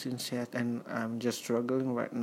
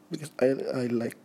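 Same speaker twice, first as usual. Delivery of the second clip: words pushed out through a burp; 3 semitones higher, 6 dB louder, much faster than usual. Real, not acted. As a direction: talk right through a burp. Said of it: "sorry, I just burp".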